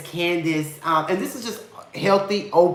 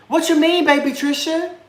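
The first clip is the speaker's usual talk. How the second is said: playful high voice; 11 semitones higher than usual. Acted. Reading a viewer's comment aloud.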